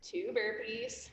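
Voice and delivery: winded, nearly voiceless; breathless whisper. Real, not acted. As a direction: push it out with no breath left. Cue called while out of breath.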